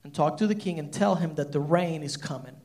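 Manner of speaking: God speaking gently. Retold or imitated. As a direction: quietly give the calm command. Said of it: "God looks at Elijah and says".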